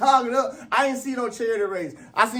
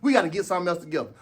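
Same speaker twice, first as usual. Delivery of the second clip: a quieter, lower, hurried confession; sheepish admission; 5 semitones lower, 5 dB quieter, faster than usual. Retold or imitated. Athlete confessing to his coach, low and hushed. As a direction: mumble it to the coach like you're embarrassed. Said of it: "go back to your coach right now and say".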